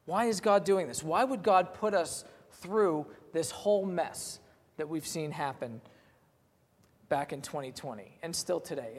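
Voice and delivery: a hint of a bewildered believer asking why; voicing the doubter. Preacher voicing a hurting listener, mildly pleading. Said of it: "easy to ask the question".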